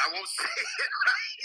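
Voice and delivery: high, laughing through the words; laughing off a naughty word. Real, not acted. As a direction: giggle the words out. Laughing at a near swear.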